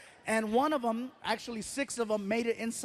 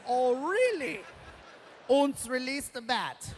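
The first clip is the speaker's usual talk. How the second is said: put-on German accent; 3 semitones higher, slower than usual.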